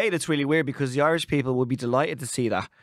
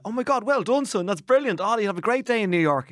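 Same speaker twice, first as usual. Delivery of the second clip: hoped-for praise; 5 semitones higher than usual. Retold or imitated. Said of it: "wanting the".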